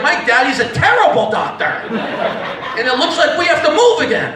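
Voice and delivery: mock dismay, drawn out toward the end; confused little kid. Child sees uncle passed out, mock confused dismay. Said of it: "Then I'm confused".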